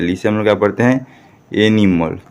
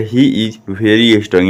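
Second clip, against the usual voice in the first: slow, word-by-word read-out; slow model reading; much slower than usual. Shown as a demonstration. Teacher shows pupils how to read the sentence, slow model reading. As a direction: read it slowly for learners to repeat. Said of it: "तो कैसे पढ़िएगा?".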